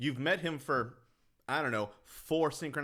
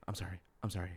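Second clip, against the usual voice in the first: mock apology; 6 semitones lower, much faster than usual. Mocking film character's moaning apology.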